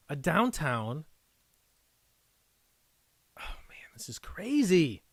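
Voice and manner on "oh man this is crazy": excited hushed whisper; thrilled whisper. Real, not acted. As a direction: whisper it, barely holding it in.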